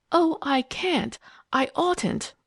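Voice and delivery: high, drawn-out plaintive moan. A narrator's reading. Eileen refusing to explain to Phyllis, high-pitched moan. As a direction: moan it helplessly, high and slow. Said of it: "Eileen moaned".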